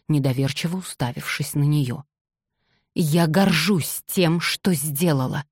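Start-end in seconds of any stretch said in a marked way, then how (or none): none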